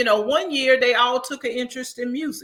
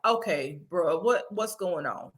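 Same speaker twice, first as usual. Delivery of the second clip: calm dad. Retold or imitated. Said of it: "their daddy is the calm one".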